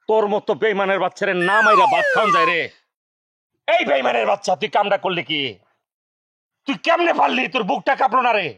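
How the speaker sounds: outraged scolding, rising in bursts; angry accusation. Acted. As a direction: berate him as a traitor. Jealous husband confronts his employee.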